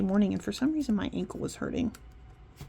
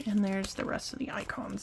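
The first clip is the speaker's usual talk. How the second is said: whispering; 6 dB quieter than usual. Real, not acted. Aside while showing kit.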